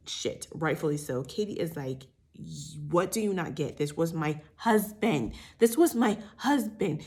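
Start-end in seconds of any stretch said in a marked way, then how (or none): 2.4-7.0 mad retelling. Retold or imitated. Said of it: "Katie is so mad".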